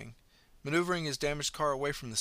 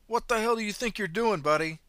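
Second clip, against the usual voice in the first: loud, high angry shout; angry driver; 9 semitones higher, 6 dB louder than usual. Acted. Angry driver yells at the man on the road. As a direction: yell at the fool like an angry driver.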